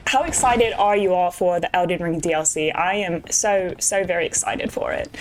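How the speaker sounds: hammed-up amateur British accent; bad British accent. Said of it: "a really bad British accent that I'm doing".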